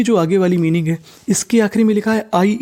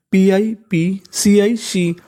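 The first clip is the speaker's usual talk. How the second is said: letters spelt slowly one by one; slow spelling out; much slower than usual. Shown as a demonstration. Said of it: "तो देखिए meaning कैसे बनती है". (अक्षर धीरे-धीरे बोलना)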